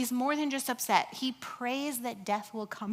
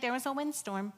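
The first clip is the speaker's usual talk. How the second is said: mock deadpan; 2 semitones higher than usual. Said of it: "non-descriptive".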